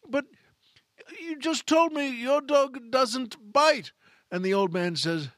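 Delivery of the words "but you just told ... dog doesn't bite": high, slow, put-out protest; hammed-up indignant Inspector Clouseau. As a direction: act wounded, drawn out, in a put-on voice. Clouseau complains after bite.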